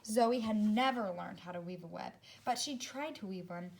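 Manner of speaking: put-on storybook reading for young kids; children's story narration; read-aloud narration. A narrator's reading. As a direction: read it to a class, clear and gentle. Teacher reads picture book aloud.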